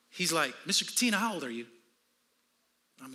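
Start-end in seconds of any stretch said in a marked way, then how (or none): 0.6-1.7 calm doctor. Retold or imitated. Doctor questioning a panicking patient, calm. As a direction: lightly imitate an unruffled doctor. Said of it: "he's all calm".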